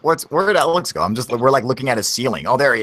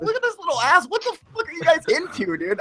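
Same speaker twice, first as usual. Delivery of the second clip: mocking squeaky kid voice, much higher; high-pitched kid; 14 semitones higher, 4 dB quieter than usual. Mocking the kid on game chat, high-pitched. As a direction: imitate a little kid squeaking into his mic. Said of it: "he's got this high pitched voice".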